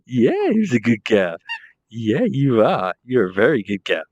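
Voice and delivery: slow, drawn-out cooing to a dog; doting pet talk. Real, not acted. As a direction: praise the dog slowly and fondly.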